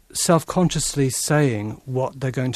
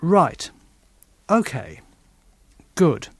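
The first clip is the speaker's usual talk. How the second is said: teacher's marker words; 3 semitones higher, 4 dB louder than usual. Shown as a demonstration. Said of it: "you often hear teachers saying in a classroom".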